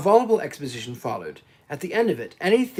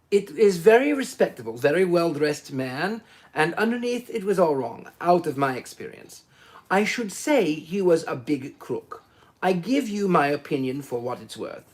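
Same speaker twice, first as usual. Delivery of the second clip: lightly voiced confident Italian, knowing; a hint of a knowing Italian salesman; voluble Italian salesman. Foscarelli giving Poirot his opinion, lightly voiced knowing Italian. Italian judging the dead man.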